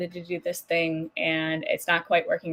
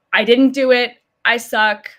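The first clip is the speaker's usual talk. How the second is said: imitating the harsh inner critic; self-critical rant; 3 semitones higher, 5 dB louder than usual. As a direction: berate yourself in a hammed-up voice. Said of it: "we would probably be like".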